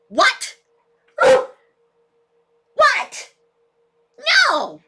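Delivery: surprised what. Real, not acted. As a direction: snap a startled what. Reacting to the dog.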